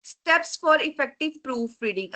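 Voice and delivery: slow, deliberate heading read; reading slide heading. Shown as a demonstration. Teacher reading the slide title to students, slow and deliberate. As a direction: read the title out slowly and clearly.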